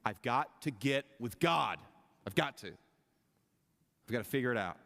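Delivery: an ache that swells until it bursts out; urgent longing. Acted. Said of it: "something in you going".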